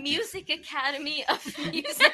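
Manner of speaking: laughing. Real, not acted.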